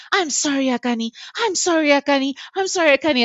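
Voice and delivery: high, repeated sing-out apology; retold pleading apology. Mother apologises to baby between contractions, high retold plea.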